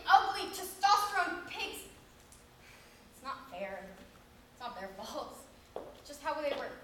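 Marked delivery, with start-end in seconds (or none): 3.1-6.8 mock sulk. Sulky self-pity monologue.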